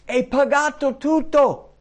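high, slow, full-voiced shout; loud cry. Jesus crying out that the debt is settled, loud shout. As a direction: proclaim it at the top of your voice. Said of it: "quella parola che Gesù gridò".

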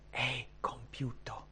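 very soft, slow, whispered quote; hushed whisper. Acted. Preacher repeating Jesus' last words, slow hushed whisper. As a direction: whisper it slowly, with weight.

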